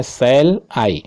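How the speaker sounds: "shall I" as two separate beats, "I" held; iambic foot. Shown as a demonstration. Teacher showing one foot of the sonnet, "shall I" in two beats. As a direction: split "shall I" into "shall", then a longer "I". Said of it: "आपको feet मिला है यानी जोड़ा मिल रहा है".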